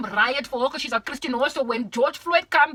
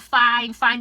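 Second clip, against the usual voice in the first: exasperated fine; 7 dB louder than usual. Real, not acted. Exasperated rant at YouTube.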